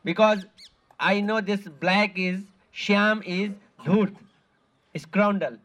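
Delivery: mildly indignant retold orders; angry Radharani. Radharani ordering her maidservants to guard the kunj, mildly angry. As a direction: voice her stern warning, a touch heated. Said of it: "becoming angry".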